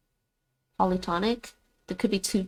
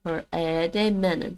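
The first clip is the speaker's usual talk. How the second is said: second order try; slower than usual. Shown as a demonstration. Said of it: "Menen aede".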